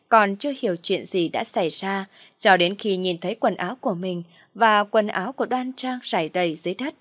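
ordinary delivery

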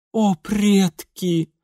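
slow, high, drawn-out despair; exasperated sigh. Acted. Lady exasperated by her husband, slow high groan of words. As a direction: throw up your hands.

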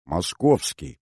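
calm, level delivery; composed and matter-of-fact; even voice. Acted. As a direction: answer evenly, without excitement. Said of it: "ровным голосом проговорила Сулима".

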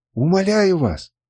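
high, slow plea; acted drawn-out entreaty; imploring. A narrator's reading. Girl begs her captor.

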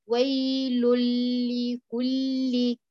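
"ويل لكل" with the doubled lam drawn out very slowly; idgham into lam. Shown as a demonstration. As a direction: stretch the lam in "ويل لكل", no noon heard. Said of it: "انتبهي لضمة اللام". ("ويل لكل" بمد اللام المشددة ببطء شديد)

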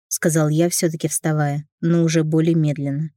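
ordinary delivery

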